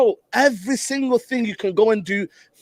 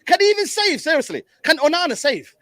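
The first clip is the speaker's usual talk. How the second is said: exasperated shouting; 9 semitones higher than usual. Real, not acted. Watching match, exasperated at keeper.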